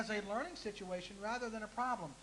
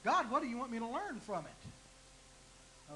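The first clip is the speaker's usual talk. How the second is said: slow, hushed plea to God; praying aloud; slower than usual. Retold or imitated. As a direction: ask it slowly like a real prayer. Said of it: "when I'm going through the problem".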